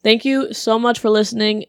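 ordinary talk, nothing marked

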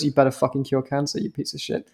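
soft, sinking to a breathy whisper at the end; hushed threat. Retold or imitated. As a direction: hiss it low so only he hears. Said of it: "like, quietly".

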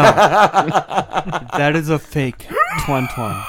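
slow, drawn-out creepy character voice. Acted. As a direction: stretch it out slow and creepy, like a sleazy showman. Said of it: "that just sounds like a pedophile magi".

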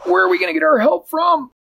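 high, worried cat voice; puzzled and upset; dismayed Barnaby. Acted. Barnaby in the empty room, high dismayed voice.

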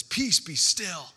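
calm the storm with a slow, firm order; commanding Jesus. Retold or imitated. Jesus rebukes the wind and sea, slow and firm.

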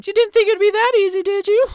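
high, fast, laughing villain taunt; a smug mastermind crowing through a speaker; gloating villain over intercom. Acted. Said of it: "You hear over the intercom".

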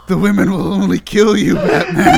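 rising to a shrieking laugh on Batman; ranting comic villain voice; mock villain rant.

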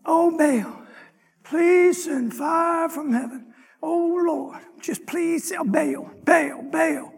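drawn-out mock prayer; mildly hammed-up begging, words stretched; mock pleading. Prophets of Baal praying for fire, mock pleading. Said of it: "I made fun of him".

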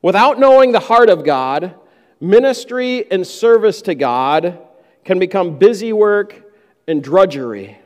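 phrase by phrase with pauses; slow emphatic repeat. Shown as a demonstration. Preacher repeating the key line for the congregation, slow and pausing. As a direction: land each phrase so it sinks in. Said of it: "Let me say that again, 'cause I want you to catch that".

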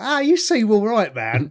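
put-on breezy New York tough-guy accent. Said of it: "the actor from Wrinkles to the Clown voice".

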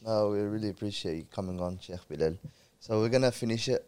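croaky voice from a cold. Real, not acted. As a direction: talk through a croaky throat. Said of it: "sorry about the croaky voice".

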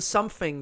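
"something" said as "sumfing". Shown as a demonstration. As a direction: swap the TH in "something" for an F. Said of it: "you know how some people say".

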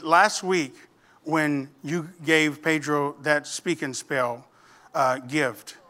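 low, soft, unhurried teacher; gentle. Retold or imitated. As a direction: lead up to it carefully. Teacher gently explains to pupil.

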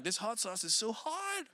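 soft laughing excuse; mock hiding tears, chuckling; quietly laughing it off; joking cover-up. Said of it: "I'm just trying to cover it up".

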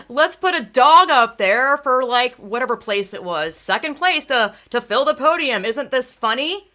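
breezy, dismissive imitation of the organizer; a hint of the careless organizer making a joke; mock nonchalant organizer. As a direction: lightly ham up his careless joke, unhurried. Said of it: "you know, all nonchalant".

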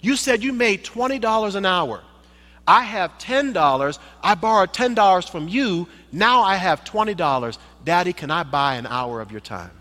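put-on high, pleading child voice; earnest little boy. Little boy asking to buy his father's time, high and earnest. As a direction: explain with all your heart.

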